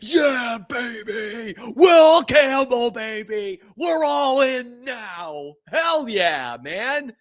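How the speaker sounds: high, drawn-out victory yells; hyped fan celebration. Real, not acted. Fan cheering the new draft pick, hyped yelling. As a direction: whoop it up like a won-over fan.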